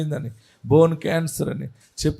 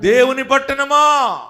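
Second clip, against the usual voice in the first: louder, slower proclaiming; emphatic repeat; 6 semitones higher, 4 dB louder, slower than usual. Shown as a demonstration. Pastor to congregation, repeating the verse, louder and slower. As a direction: call it out again, drawn out and ringing.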